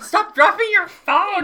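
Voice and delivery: high, loud teasing shout; playful yell. Real, not acted. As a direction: shout at her, half laughing.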